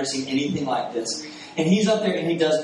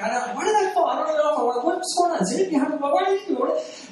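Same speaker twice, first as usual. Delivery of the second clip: bewildered retold thoughts; 12 semitones higher than usual. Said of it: "And I'm thinking".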